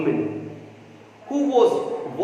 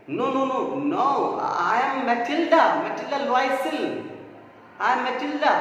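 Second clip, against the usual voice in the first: insistent; 6 semitones higher than usual. Acted. Matilda insists on her identity.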